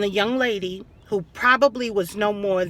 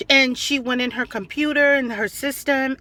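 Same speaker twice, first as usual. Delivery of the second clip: usual speaking voice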